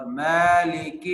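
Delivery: مالک ending on a light, thin k; thin kaf. Shown as a demonstration. Teacher demonstrating the thin kaf in مالک. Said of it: "کاف کو باریک پڑھتے ہیں".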